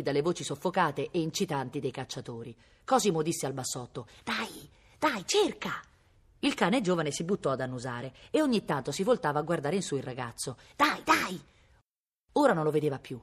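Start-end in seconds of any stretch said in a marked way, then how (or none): 4.2-5.8 higher-pitched coaxing command; urging a dog. A narrator's reading. Boy urging dog to search. 10.8-11.4 higher, quick-fire encouragement; eager little command; urging a dog. A narrator's reading.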